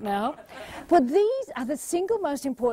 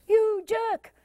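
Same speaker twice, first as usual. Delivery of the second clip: muttered insult; 10 semitones higher than usual. Retold or imitated. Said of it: "if you do things like".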